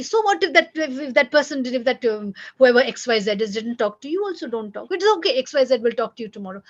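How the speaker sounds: put-on irritated parent dismissing a hurt child; angry parent. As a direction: snap at the child to shrug it off. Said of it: "you get angry".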